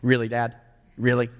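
imitating a dismissive ten-year-old; unimpressed son. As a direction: let "really" imply Dad is an idiot. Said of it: "him calling me an idiot".

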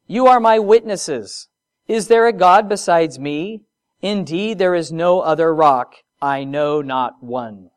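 preacher reading Isaiah with force; scripture reading. Acted. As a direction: proclaim God's words with weight. Reads Isaiah scripture aloud.

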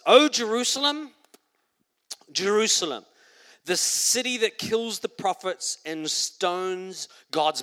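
a lament cried out over the city; Jesus lamenting. Acted. Jesus calling out over the city, lamenting.

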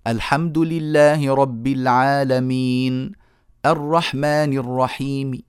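slow recited verse, faint vowel at stops; slow measured Quranic recitation; slow Quran recitation with rawm. Shown as a demonstration. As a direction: recite slowly, clipping final vowels to a third. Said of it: "أتينا بالروم".

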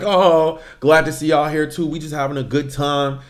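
lightly imitated Bay Area accent; imitating a guy's Bay Area accent. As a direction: greet them casually with a hint of Bay Area. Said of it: "very Bay Area accent".

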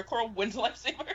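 Coral wins the lifesaver said again with a laugh; laughing repeat. Real, not acted. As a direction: repeat it, amused and triumphant. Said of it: "no one, they didn't throw it for her".

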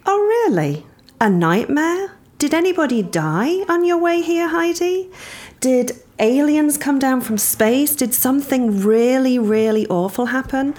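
high-pitched mock incredulity, imitating a friend; Abby calling out exaggeration. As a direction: challenge the overstatement with exaggerated high questions, as a retold friend. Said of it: "And Abby, being Abby, said".

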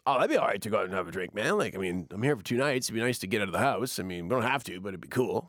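a hint of a smooth radio voice, quick and easy; laid-back radio guy. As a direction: lightly play the chill DJ brother. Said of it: "your brother does not talk like that".

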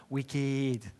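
WICKED drawn out in a mock Manchester accent. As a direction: imitate Manchester slang on "Wicked", second vowel stretched. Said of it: "say it in his Manchester accent".

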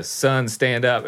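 slow, deliberate order; stern cop command. Retold or imitated. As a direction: issue it like a calm officer. Police officer waking passed-out marine.

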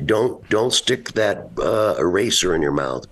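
mild mock parental warning. Acts himself warning his child.

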